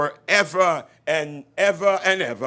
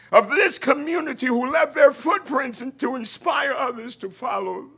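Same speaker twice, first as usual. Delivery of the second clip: public prayer. Acted. Pastor prays over the community gathering, fervently. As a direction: pray over the room with growing force.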